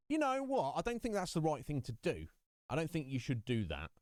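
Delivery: objecting to the government, voice jumping up at first; indignant protest. Retold or imitated. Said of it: "And I'm like".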